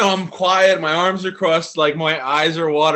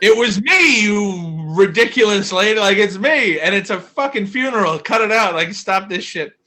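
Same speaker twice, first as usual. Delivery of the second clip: raised, loud mock outrage; exasperated rant; 5 semitones higher, 4 dB louder than usual. Nephew scolding a forgetful relative at a funeral, exasperated. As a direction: tell her off, pitched up and indignant.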